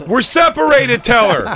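put-on high, loud whiny kid; embarrassed teen. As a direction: snap it like a mortified teenager. Voicing son.

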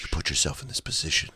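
low, soft killer's murmur; hushed, deep pretend-killer voice; mock menacing calm. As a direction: speak low and softly to your victim. Acts menacing talk to stabbed victim.

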